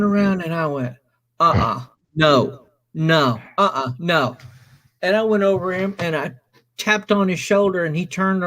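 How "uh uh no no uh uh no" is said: firm refusal. Retold or imitated. Acting out his refusal to accept it.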